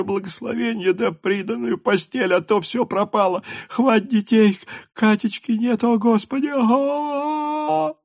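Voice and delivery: high, tearful rush of words ending in a wail; sobbing patter. A narrator's reading. Mother tells Pierre of the fire, sobbing high. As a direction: pour it all out between sobs. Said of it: "скороговоркой всхлипывая".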